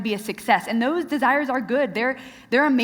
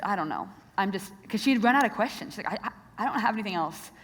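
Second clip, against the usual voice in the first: quietly upset; 3 dB quieter, faster than usual. Retold or imitated. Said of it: "starts crying".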